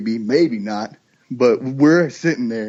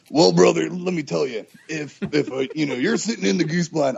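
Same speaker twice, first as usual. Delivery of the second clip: Uncle Catfish impression; 2 semitones higher than usual. Host imitates Uncle Catfish starting a story, lightly. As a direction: lightly put on the old hunter's voice. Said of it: "that impersonation of him".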